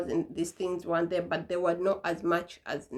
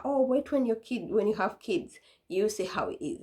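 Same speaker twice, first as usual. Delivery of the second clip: mom warning; 3 semitones higher than usual. Retold or imitated. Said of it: "she'll be like".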